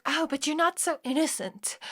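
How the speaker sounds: defensive. Retold or imitated. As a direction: mimic someone playing the victim. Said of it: "I feel them being so defensive".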